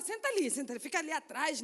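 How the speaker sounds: dismissive hushed shooing. Retold or imitated. Church member shooing drunk visitor back.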